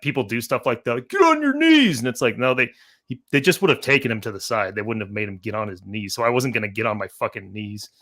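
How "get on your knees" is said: high-pitched imitation of a shouted command; mock barked order. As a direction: bark it like a play-acting cop. Imitating people barking police-style orders.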